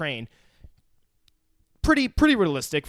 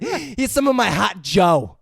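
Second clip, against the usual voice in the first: lightly voiced hobo; 5 semitones higher, 4 dB louder, slower than usual. Hobo offering coffee.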